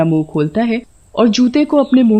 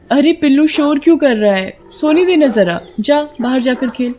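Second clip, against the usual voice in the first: mild, higher-pitched scolding; 5 semitones higher than usual. Acted. Sona wants to sleep and tells off her noisy puppy, mildly scolding. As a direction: shoo away the noisy pup, mildly cross. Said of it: "मैंने उसे डांट दिया था".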